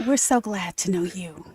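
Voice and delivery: lightly voiced low, soft radio host; a hint of a late-night DJ; trying a jazz DJ voice. Co-host welcoming listeners, in a tentative soft DJ voice. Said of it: "you're trying it out".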